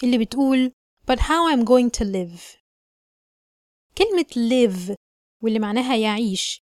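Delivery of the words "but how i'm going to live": slow careful reading. Shown as a demonstration. Teacher reading the sentence slowly for learners. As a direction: read each word slowly and clearly. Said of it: "sentence number sixteen".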